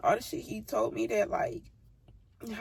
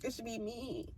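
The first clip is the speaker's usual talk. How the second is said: hushed hurt; 11 dB quieter than usual. Real, not acted. Bitter hurt conclusion.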